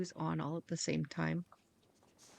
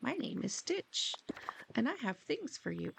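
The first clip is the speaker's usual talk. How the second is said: character voice; 3 semitones higher, slower than usual. Acted. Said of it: "He's like".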